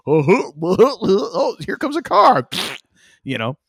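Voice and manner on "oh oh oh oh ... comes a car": high, loud dopey rodent voice; hammed-up clueless critter; dim-witted squirrel. Dumbest rodent spotting a car, dim-witted squirrel voice. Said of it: "where they're just like".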